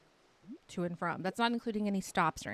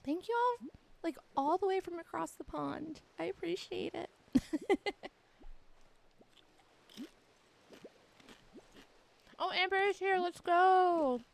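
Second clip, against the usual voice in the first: excited; 9 semitones higher than usual. Real, not acted. Excited greeting to arriving viewer.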